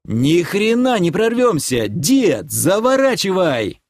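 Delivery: паническое возражение. Acted. Спор перед летящим бревном.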